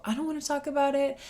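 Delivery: quick sulky little kid voice, imitated. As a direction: rattle it off like a stubborn kid.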